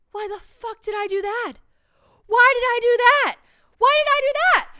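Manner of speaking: hammed-up scream of self-reproach; panicked regret. Instant regret after rash offer, reenacted.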